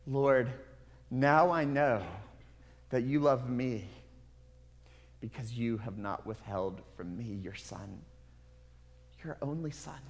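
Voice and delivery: a gentle, grateful prayer; Abraham's tender reply. Acted. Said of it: "What would have Abraham said back to God".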